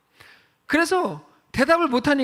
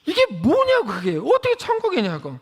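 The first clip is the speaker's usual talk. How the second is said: incredulous protest; 2 semitones higher than usual. Acted. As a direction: question it as utterly absurd. Mock protest at kimbap heaven. (어이없다는 듯 따지기)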